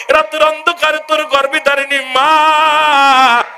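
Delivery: fiery waz preaching. Acted. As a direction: preach to the crowd in full force. (উচ্চস্বরে ওয়াজের সুর)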